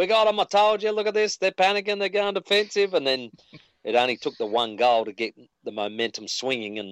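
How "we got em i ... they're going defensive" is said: mock shrieking, very high-pitched screaming yell. Retelling the moment the game turned: retelling own screaming. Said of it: "I just started screaming".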